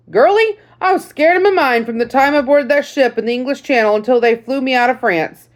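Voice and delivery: lightly voiced grandfatherly veteran; old sergeant voice. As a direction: greet the girl like a folksy old sergeant. Sergeant confesses fear.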